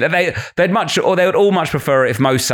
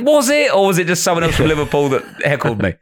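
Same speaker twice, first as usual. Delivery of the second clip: mock surprise; 4 semitones higher than usual. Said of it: "And you go".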